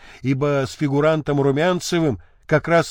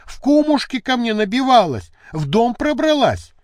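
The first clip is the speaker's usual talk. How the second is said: agitated accusation; 7 semitones higher, 3 dB louder than usual. A narrator's reading.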